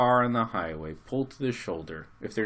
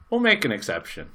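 laughing; 11 semitones higher, 12 dB louder than usual. Retold or imitated. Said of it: "burst out laughing".

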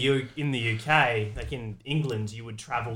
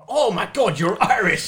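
high, louder astonished exclamation; mock surprise; 7 semitones higher, 5 dB louder, slower than usual. Listener discovering a singer is Irish, retold surprise.

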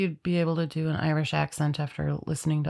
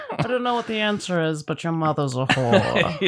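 Sean Connery impression; 3 dB louder than usual. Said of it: "who's the guy that played him".

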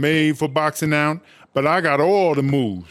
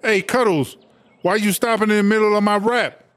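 lightly voiced mock of her rival, pitched higher; a quick, high put-on imitation of Minji cut off mid-rap; brief hammed-up parody of the rival rapper; 5 semitones higher than usual. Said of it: "Step into Chartreuse's like".

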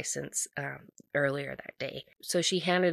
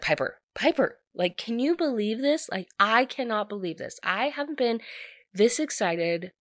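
higher, gushing mock delight; bursting with excitement; 5 semitones higher than usual. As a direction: spill it out as though she can't contain it. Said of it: "just bursts out in excitement".

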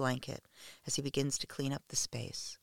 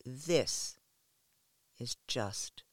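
god's voice; slower than usual. Acted. Thor speaking to the kneeling worshipper, slow otherworldly whisper. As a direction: whisper it slowly like a god speaking in her mind. Thor's thunder rings in my ears.

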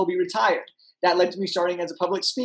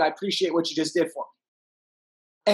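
grateful Jerry; 4 semitones lower, slower than usual. Retold or imitated. Jerry West thanking him quietly.

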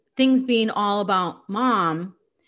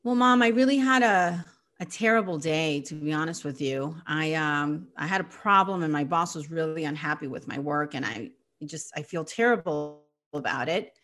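softer and lower, a tired sad account; mildly acted sadness, understated; dejected confession; 4 semitones lower, 4 dB quieter than usual. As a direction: admit a bad day quietly. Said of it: "like this, for example".

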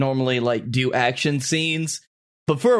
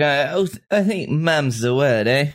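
a hint of a New Zealand accent on mum's the word. Character hinting at a secret in a faint New Zealand accent. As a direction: lightly slide into a Kiwi lilt, eh. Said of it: "Oh, that was your Australian?".

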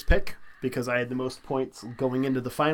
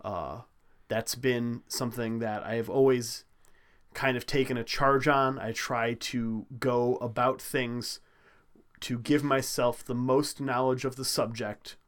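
mock-earnest speech. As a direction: deliver it like a solemn personal creed, pausing often. Mock-earnest speech building to a movie quote.

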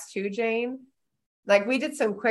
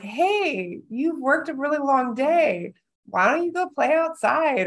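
mock kind invitation; 5 semitones higher than usual. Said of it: "coming home and being like".

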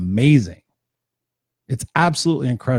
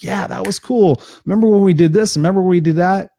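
higher, bright fond memories, mostly louder; joyful reminiscing; 6 semitones higher, 3 dB louder than usual. Retold or imitated. Imitating someone remembering old times with joy. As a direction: cheerfully recall the good times. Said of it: "look back on those experiences with joy".

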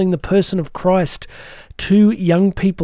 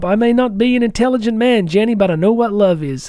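bad American accent; 3 semitones higher than usual. Podcaster quoting Forrest Gump to listeners, bad American accent. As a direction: try a mild, not very good American accent. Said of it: "That was a really bad American accent".

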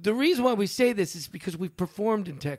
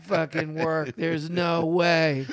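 scared monkey; 4 semitones lower, slower than usual. Retold or imitated. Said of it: "That monkey was scared".

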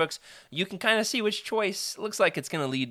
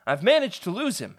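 high, louder call over the shoulder; calling back; 6 semitones higher, 5 dB louder than usual. Acted. The speaker calling back over his shoulder mid-game, high call. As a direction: toss it back while running. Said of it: "he calls back over his shoulder".

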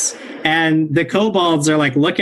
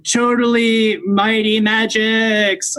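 boastful kobold voice; 5 semitones higher, slower than usual. Acted. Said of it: "and says".

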